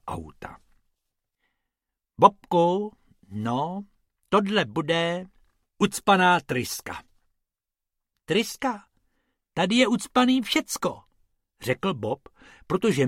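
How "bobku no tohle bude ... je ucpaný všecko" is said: lightly high rabbit voices; puzzled mechanics peering under the bonnet; rabbits fixing the car. Acted. Rabbits inspecting the engine.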